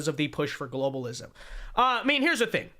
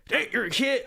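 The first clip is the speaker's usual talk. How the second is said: put-on higher, half-hearted Australian accent; attempted Australian accent; 4 semitones higher than usual. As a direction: try an Australian accent and give up. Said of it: "I can't do an Australian accent".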